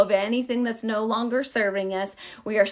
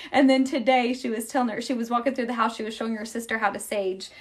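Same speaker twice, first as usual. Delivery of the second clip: ordinary talk, nothing marked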